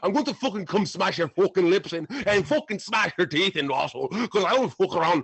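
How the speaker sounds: mock Irish brawler boasting; a put-on Irish accent that wanders off; Irish accent attempt. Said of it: "Sound a little South African".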